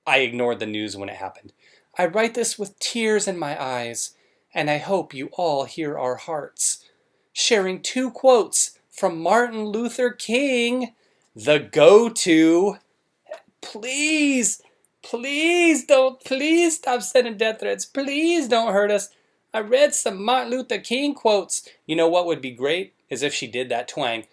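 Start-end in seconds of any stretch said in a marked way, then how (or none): 2.0-6.8 mock tearful wife. Mocks Brittany's tearful apology. 7.3-21.7 high, whiny, slow mock plea from a weepy wife; mock pleading wife. Mocks Brittany pleading, high whiny.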